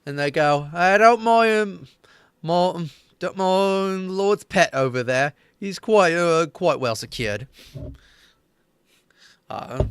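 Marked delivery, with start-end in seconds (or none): 0.7-7.5 higher, louder, slow amused locals; chuckling reassurance. Acted. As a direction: laugh off their worry. NPCs chuckling reassure player.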